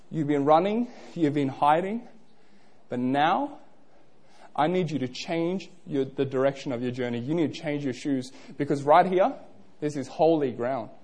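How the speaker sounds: low, soft and measured; hushed, solemn voice. Acted. God telling Moses to change direction, hushed and solemn.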